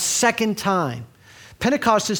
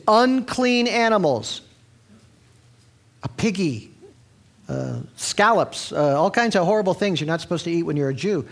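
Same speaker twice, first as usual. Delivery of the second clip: voice of God. Acted. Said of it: "this voice came".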